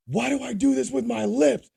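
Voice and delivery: high, loud mocking voice of the upset man; mock whiny man. Retelling what he heard from the therapist's office, high mock squeal. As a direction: squeal the question like a frantic grown man. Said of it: "what I hear is".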